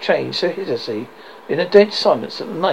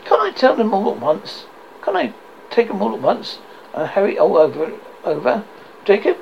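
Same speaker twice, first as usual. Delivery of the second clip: pleading; 5 semitones higher than usual. Acted. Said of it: "pleaded Scrooge".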